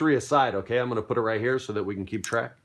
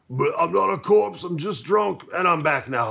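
put-on higher, slurry drunk voice; drunk pirate; 6 semitones higher than usual. Drunk captain butting into the fight, higher tipsy voice.

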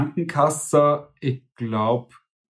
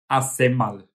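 Austrian word. Shown as a demonstration. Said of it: "wir würden sagen".

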